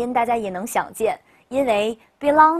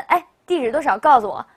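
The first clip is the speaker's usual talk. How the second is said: abrupt, louder demand for information; blunt direct question; 3 semitones higher, 5 dB louder than usual. Acted. Teacher acts out asking a stranger too directly, blunt. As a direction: ask bluntly, with no politeness at all. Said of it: "你直接问".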